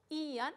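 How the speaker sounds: "ian" with the i stressed and separate from the a. Shown as a demonstration. Teacher showing the last accented ending, stress on the i of "ian". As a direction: put the weight on the i of "ian". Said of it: "acento sobre i".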